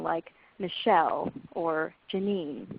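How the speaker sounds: slow, Michelle and Janine each hit on the second syllable; stress on second syllable. Shown as a demonstration. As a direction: land on mi-CHELLE and ja-NINE, slowly. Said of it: "where the stress is on the second syllable".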